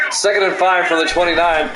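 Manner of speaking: steady sportscaster call of each play. Acted. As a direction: call the drive like a broadcaster. Play-by-play of game.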